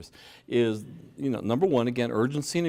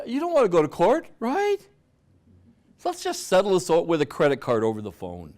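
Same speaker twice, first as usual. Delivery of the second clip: pushy scam agent; 6 semitones higher, 5 dB louder than usual. Retold or imitated. Mimicking scam agent pressuring victim.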